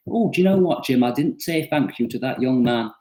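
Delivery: lightly put-on generic non-Portsmouth accent, high start; a hint of a vague northern or Welsh-ish accent, mock wife to husband; faint vague non-Portsmouth accent voicing the lady; generic regional accent. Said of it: "that's my generic, not from Portsmouth accent".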